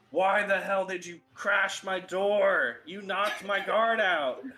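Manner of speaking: angry orc boss, high and loud; slow, loud, indignant orc demanding answers; Thragos. Acted. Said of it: "this giant orc who you could guess would be Thragos".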